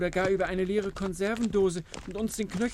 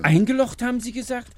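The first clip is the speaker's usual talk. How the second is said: loud startled question, pitch rising; sudden loud double take; surprised; 5 semitones higher, 6 dB louder than usual. Acted. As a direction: blurt it out in disbelief. Bonko surprised at news.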